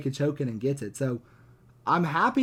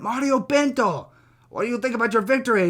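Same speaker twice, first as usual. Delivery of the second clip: Michael Bisping; 7 semitones higher, 4 dB louder than usual. Retold or imitated. Podcaster mimics the commentator interviewing the winner, high hammed-up voice. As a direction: stretch the name, then rush the question. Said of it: "But he was like".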